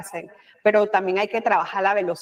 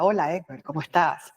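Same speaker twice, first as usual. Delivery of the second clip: lower, put-on announcer greeting; radio announcer voice; 4 semitones lower than usual. Shown as a demonstration. To warn against faking a voice, a lower mock announcer greeting. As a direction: mimic a staged radio host saying hello. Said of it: "como una locutora".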